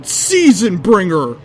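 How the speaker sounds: yelling a name. Acted. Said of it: "I yelled".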